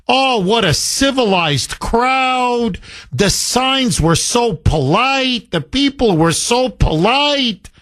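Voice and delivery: high, slow, sneering sarcasm; sarcastic mockery. Host mocking a newspaper's rosy report, sarcastic. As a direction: drip with mock praise. Host mocks Herald's praise.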